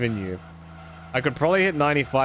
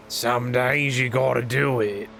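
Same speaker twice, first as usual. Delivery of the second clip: put-on twang; slower than usual. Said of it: "I don't normally talk like this".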